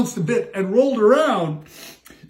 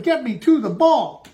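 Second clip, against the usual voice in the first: mock shout; 5 semitones higher, 4 dB louder than usual.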